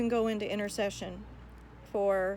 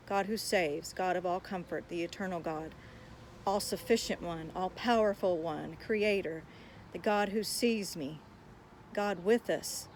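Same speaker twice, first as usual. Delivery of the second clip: reciting God's names. Shown as a demonstration. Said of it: "just like reading them, you know, mundanely".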